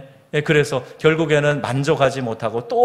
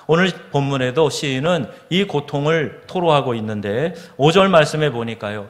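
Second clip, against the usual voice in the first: ordinary talk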